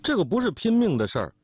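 insistent peacemaking; urgent mediating. Acted. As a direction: step in to break up a quarrel. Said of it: "就劝住说".

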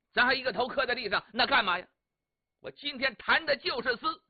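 angry outburst. Acted. Young master Chai protesting to Wang, hurt and angry. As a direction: Chai fires back, stung and indignant. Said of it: "柴少爷把眼瞪起来了，这脾气也上来了".

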